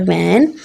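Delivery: "वैन" said as one unbroken beat; one syllable. Shown as a demonstration. Teacher contrasting it with active, "वैन" in a single piece. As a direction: keep "वैन" whole, no split. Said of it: "वैन में एक ही है".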